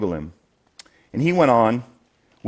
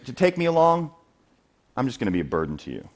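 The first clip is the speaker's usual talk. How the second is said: humble; 3 semitones higher than usual. Acted. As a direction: humbly decline the honor, voice settling down. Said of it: "Very humble here".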